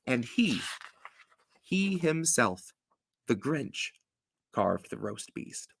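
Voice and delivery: storybook read-aloud, rhythmic rhymes; story narration. Acted. Host reading Dr. Seuss to listeners, storybook cadence. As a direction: read it like a bedtime book.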